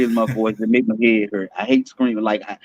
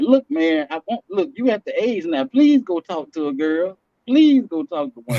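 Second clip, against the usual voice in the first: pleading dad; 5 semitones higher than usual. Acted. Acting out pleading with his son.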